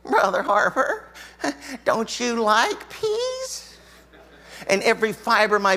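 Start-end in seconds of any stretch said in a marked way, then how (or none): 0.0-3.7 lightly voiced sweet old lady; a gentle little old lady asking. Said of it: "in her little old lady voice".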